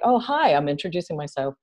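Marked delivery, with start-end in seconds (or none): 0.0-0.5 higher, mildly sugary mock hello; a light hint of patronizing cheer; overly friendly greeting. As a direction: imitate a stranger being a bit too nice. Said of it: "I get the comments like".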